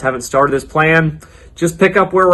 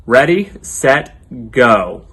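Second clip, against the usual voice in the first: countdown; 2 semitones lower, much slower than usual. Real, not acted. Counting kids in to yell.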